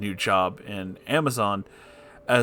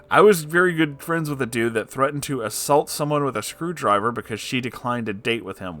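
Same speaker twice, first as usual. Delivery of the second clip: usual speaking voice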